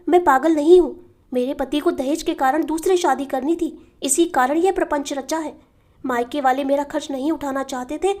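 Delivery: urgent protest, lightly acted; pleading inmate. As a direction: plead to be let out, insisting on sanity. Asylum inmate begs to be released.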